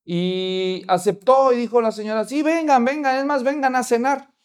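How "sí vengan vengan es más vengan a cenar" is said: higher, eager invitation; eager hostess. Retold or imitated. Mother invites pastor to dinner, eager and higher.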